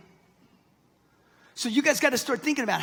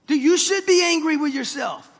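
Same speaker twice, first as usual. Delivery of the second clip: louder and higher, pushing the crowd; raised-voice challenge to the room; louder exhortation; 5 semitones higher, 6 dB louder than usual. Real, not acted. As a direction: call them out, louder. Exhorting audience loudly.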